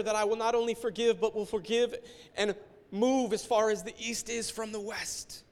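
voice of God. Retold or imitated. Mounting challenging voice. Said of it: "And he said".

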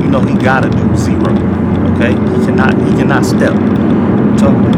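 loud excited yelling at the screen; hyped yelling. Real, not acted. Yelling at a clip of a truck racing, hyped. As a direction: shout at the clip like a hype man.

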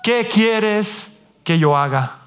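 slow, hushed, trembling plea; a touch of fear, slowed right down; trembling and fearful. Acted. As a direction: ask it like a frightened man who has just met God. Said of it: "temblando y temeroso dijo".

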